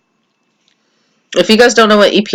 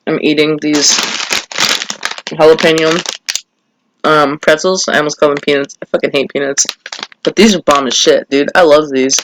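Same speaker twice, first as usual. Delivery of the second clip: crunching chips. Real, not acted. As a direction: mouth full, crunching pretzels. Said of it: "I'm sorry if you guys can hear me crunching".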